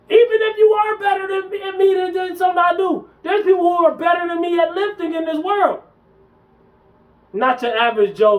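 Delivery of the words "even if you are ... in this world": much higher, louder ranting shout; heated shout. Real, not acted. To viewers, insisting others are better, heated shout. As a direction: shout it out, fired up.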